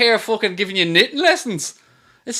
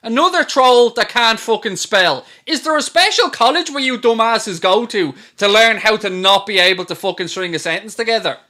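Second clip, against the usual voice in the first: exasperated rant; 3 semitones higher, 4 dB louder than usual. Real, not acted. Ranting at troll comment.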